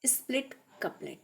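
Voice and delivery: soft breathy whisper of the topic title; hushed whisper announcing the next topic; whispered heading. Real, not acted.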